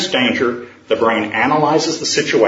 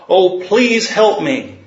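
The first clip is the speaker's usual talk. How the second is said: higher, slow and begging; pleading man; 5 semitones higher, slower than usual. Acted. Man on the cliff begs the Lord for help, high and slow. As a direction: drag the plea out.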